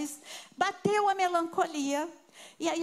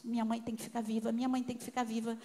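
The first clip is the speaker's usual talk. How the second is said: put-on anxious child's prayer; 3 semitones lower, 3 dB quieter, faster than usual. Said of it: "Eu falava".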